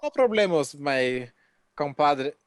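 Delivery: playful mock Spanish accent; a hint of hammed-up Spanish. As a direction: put on a light, jokey Spanish accent. Jokey Spanish phrase, racist accent worry after.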